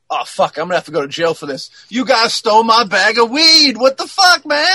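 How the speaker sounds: rising into an angry yell; mock outraged robber; robber's outburst. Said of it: "he's like".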